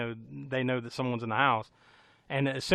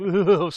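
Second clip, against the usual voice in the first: imitated sliding noise; 4 semitones higher, 7 dB louder than usual.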